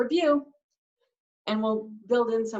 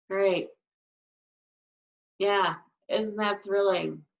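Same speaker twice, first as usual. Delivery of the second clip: sarcastic deadpan. Shown as a demonstration. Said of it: "I'm being sarcastic".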